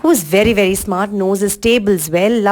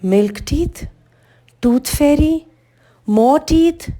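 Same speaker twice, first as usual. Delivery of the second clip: baffled questions, rising higher each time; puzzled; 6 semitones higher, slower than usual. A narrator's reading. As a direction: echo each term in growing bewilderment. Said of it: "getting more and more puzzled".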